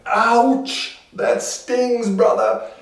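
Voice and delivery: high-pitched wincing commiseration; sympathetic village. Acted. Village feels for the cheated man, high and pained. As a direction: wince for him in a high voice. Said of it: "The village goes".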